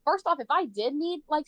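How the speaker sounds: ordinary talk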